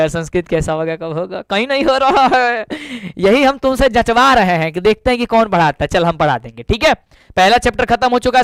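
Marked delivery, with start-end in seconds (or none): 0.1-2.6 mock-worried student complaint; imitating tense students. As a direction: drag out the end in mock fretting. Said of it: "तुम tension में थे यार". (टेंशन में छात्रों की नकल)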